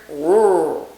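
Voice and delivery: "r" pulled to the back of the mouth; heavy Texan r. Shown as a demonstration. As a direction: place the r far back. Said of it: "make it back here".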